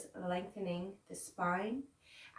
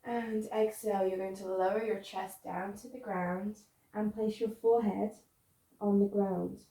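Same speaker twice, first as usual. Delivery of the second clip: guided relaxation; 6 dB louder than usual. Real, not acted. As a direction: coax them to let go, phrase by phrase, with long pauses. Guides students down into pose.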